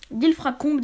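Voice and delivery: "d'Ilfracombe" redone cleanly as dil-fra-combe; corrected pronunciation. Real, not acted. Correcting herself while reading to viewers, careful "d'Ilfracombe". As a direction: fix "d'Ilfracombe" after fumbling it. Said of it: "désolé".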